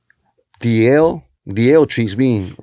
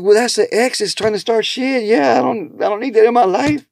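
firm; 9 semitones higher than usual. Retold or imitated. His firm reply to buddy.

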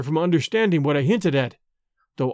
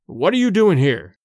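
brusque. Acted. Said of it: "his brusque question".

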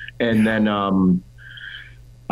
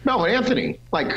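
high, squeaky mocking voice, much higher; mock outburst; 8 semitones higher than usual. To his old coach about Melvin, squeaky high mock outburst. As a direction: pitch way up to ridicule the name. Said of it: "And I'm like".

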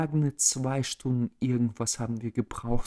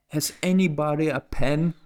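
raised, higher mock yell; retold shout to a crowd; 4 semitones higher, 5 dB louder than usual. Traveler retelling a plea to the crowd, raised call. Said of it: "ich so schrei in die Menge so".

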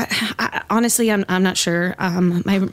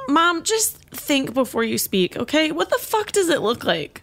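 irritated snap; 4 semitones higher than usual. Acted. Snapping at mom.

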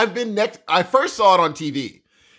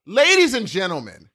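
hype announcer; 2 semitones higher than usual. Acted. Hyped introduction of guest.

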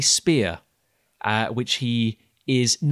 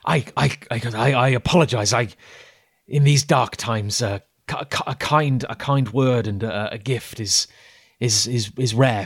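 moved, laughing islander; 4 dB louder than usual. Acted.

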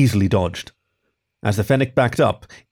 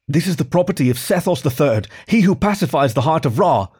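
spat; 5 semitones higher than usual. Acted. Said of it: "spat Irsu".

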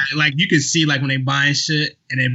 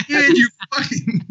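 mocking voice; 9 semitones higher, slower than usual.

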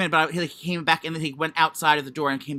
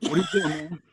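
understated straight-guy delivery; lightly acted dude without an accent; regular straight voice. Shown as a demonstration. Trying the touched-man line on request, lightly put-on regular straight voice. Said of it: "Do, like, a regular straight voice".

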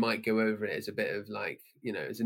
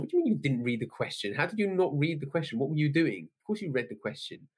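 incredulous; 4 semitones higher than usual. Retold or imitated. Teacher exasperated at student.

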